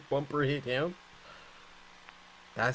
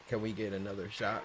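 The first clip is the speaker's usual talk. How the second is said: shouting; 6 semitones lower, 9 dB quieter than usual. Real, not acted. Streamer yelling at screen.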